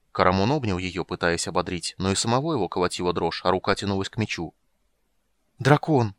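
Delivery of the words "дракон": louder, higher, in awe; awed exclamation. Acted. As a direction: breathe it out in wonder. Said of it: "с благоговейным восторгом выдохнул".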